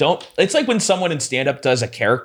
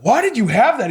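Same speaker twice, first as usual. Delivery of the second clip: high-pitched retold disbelief; incredulous question; 12 semitones higher than usual. Asking the houseguest about the spike, incredulous. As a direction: demand an explanation, voice jumping up high.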